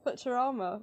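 "Futurama" with a T, not "ch"; imitated "Futurama", said as "Foo-ter-ama"; borrowed local pronunciation. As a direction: try out the co-host's "Futter-ahma" for "Futurama". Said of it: "We, we will be saying".

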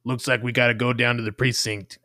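lightly voiced Boston detective; gruff cop reading the papers; grimy old detective. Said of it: "I'm gonna be a grimy old detective".

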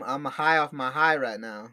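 slow stoned speech; high. Real, not acted. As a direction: talk like you're high. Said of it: "that's why I'm talking real funny".

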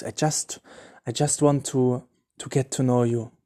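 quiet, over-sweet mock pleading; exaggerated sappy devotion. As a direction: ham up the innocent devoted lover. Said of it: "you can over-exaggerate".

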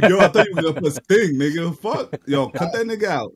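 loud excited bro yelling; frat bro. Real, not acted. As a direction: yell it like a hyped bro fan. Yelling at the screen.

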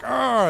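high "ah" of pain; pained cry. Acted. Struck monster reacts to the glancing blow, pained cry.

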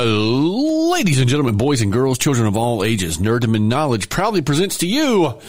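grand showman introduction; grand old ballroom announcer. Pretend. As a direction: announce it like a ringmaster. Ringmaster intro of the show.

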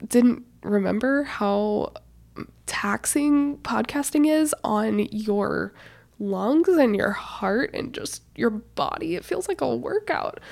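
breathless, slow and winded; out of breath. Real, not acted. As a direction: talk out of breath after effort. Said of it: "out of breath here".

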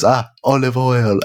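slow, savoring Italian chef; Italian chef accent. Retold or imitated. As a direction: sigh it like a chef. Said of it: "he goes".

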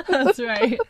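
talking between sips; slurping a drink. Real, not acted. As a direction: sip then speak. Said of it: "Sorry about the, the slurping of my drink".

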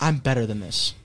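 low haughty imitation; diva attitude. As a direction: say it like a wounded diva. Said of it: "you were like".

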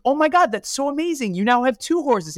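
playfully imitating an overexcited onlooker; mock excitement. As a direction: gush like a gossiping neighbour. Neighbour gushes over second horse.

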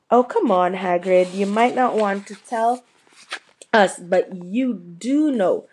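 a lightly voiced, coaxing girl, slowing down to flatter; butter him up gently, easing off the pace on the middle words; warm, flattering. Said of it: "said Hermione in a warm, flattering voice".

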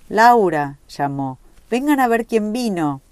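high, loud call across the house; strained call from the kitchen. A narrator's reading. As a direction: shout for her from another room, voice strained. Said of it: "destemplada por el esfuerzo la voz". (llamada alta y destemplada desde la cocina)

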